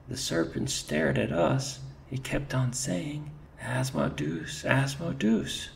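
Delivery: very high, rising, spooked; shrill with fright at the name; high frightened telling. Acted. Soldier telling his chief what the serpent hissed, frightened. Scared mouse retelling serpent.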